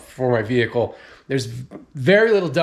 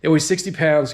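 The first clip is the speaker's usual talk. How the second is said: out of breath, between breaths; 3 semitones higher than usual. Real, not acted. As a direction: still winded after lifting. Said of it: "I'm a little out of breath".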